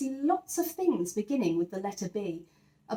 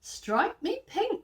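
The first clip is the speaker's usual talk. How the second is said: high, slow, drawn-out cry of amazement; astonished exclamation; 11 semitones higher, slower than usual. A narrator's reading. Fisherman finds a bicycle on his line, high and slow in astonishment. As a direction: stretch it out, truly gobsmacked.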